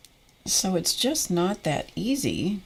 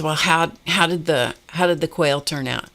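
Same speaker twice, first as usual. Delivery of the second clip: excited husband; 3 dB louder than usual. Retold or imitated. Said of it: "and he was so excited".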